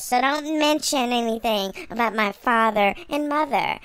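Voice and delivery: mock child diva. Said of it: "Baby Blue is walking into a room going".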